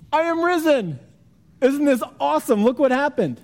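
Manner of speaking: high, loud, showy self-announcement; hammed-up boasting. Imagined Jesus bragging to Mary, hammed-up excitement. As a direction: crow about it like a hype man.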